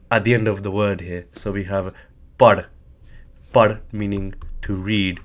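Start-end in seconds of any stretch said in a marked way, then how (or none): 2.4-2.7 "pad" said short and loud with a slight H; tonal demonstration. Shown as a demonstration. Teacher showing learners the slight tone, emphatic "pad". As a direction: punch "pad" with a faint lift in tone. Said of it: "H sound or a slight increase in tone".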